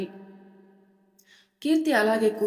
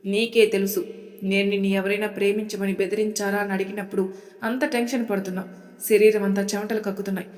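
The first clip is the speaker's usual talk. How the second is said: angry. Acted. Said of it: "అంటూ కోపడతాడు అభయ్".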